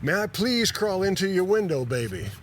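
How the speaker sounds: high-pitched, badly faked British accent; mock-bardic British voice, dropping on the last word; hammed-up British bard. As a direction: plead theatrically in a poor British imitation. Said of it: "In a barely recognizable imitation of the bard, he drones".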